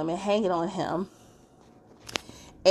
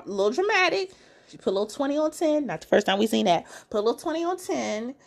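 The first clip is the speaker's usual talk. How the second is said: higher, playful shade; sassy teasing; 6 semitones higher, faster than usual. Real, not acted. The host teasing Monique for being dramatic, playful shade. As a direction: throw a little shade.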